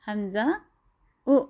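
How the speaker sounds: حمزہ then او with a glottal catch; jolted hamza. Shown as a demonstration. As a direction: cut in with a jolt before او. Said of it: "جھٹکے کی آواز کے ساتھ پڑھیں گے". (او کو جھٹکے سے ادا کریں)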